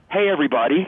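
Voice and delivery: mock crowd call. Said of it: "he screams to the crowd".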